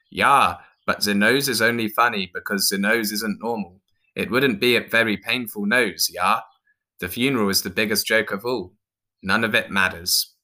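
put-on lightly accented Viking voice; argumentative Viking. Viking tells clown nothing matters, lightly voiced argument. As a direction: argue it out as a Viking philosopher.

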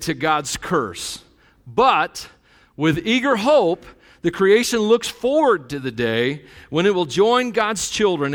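slow, solemn Bible reading; scripture reading. Acted. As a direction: read the verse slowly and gravely. Reads scripture aloud.

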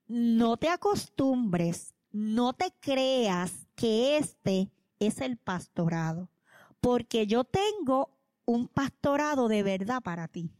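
very slow, deliberate prophetic word; slow solemn warning. Retold or imitated. Evangelist praying over the young pastor, slow solemn warning. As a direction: lay each word down slowly like a prophecy. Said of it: "lo primero que me dice es".

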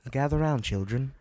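hammed-up old storyteller calling the children in; mock storyteller. Podcast host playing a fireside storyteller for listeners, hammed up. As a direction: gather the kids round like a fireside storyteller.

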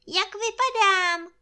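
high, loud bear voice; shouting down. A narrator's reading. Bear calls down asking how he looks, high shout. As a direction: call it out high and long. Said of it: "křičel Medvídek Pů na Krištůfka dolů".

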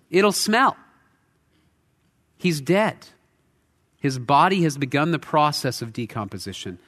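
worried Martha. Retold or imitated. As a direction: plead with Jesus not to open the tomb. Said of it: "And she says".

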